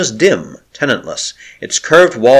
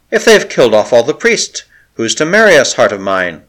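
worried. Acted. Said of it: "he worried".

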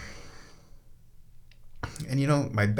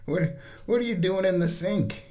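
much higher sing-song pet voice; high cooing voice for the kitten; 9 semitones higher than usual. Real, not acted. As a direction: coo at the cat. Baby talk to the cat.

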